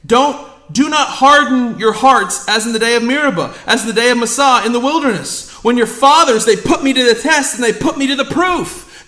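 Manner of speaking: reading scripture aloud with force. Acted. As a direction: proclaim the psalm. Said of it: "what did it say?".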